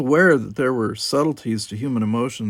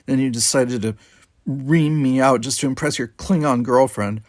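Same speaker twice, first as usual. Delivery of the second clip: angry; 3 semitones higher, 4 dB louder than usual. Acted. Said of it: "she said angrily".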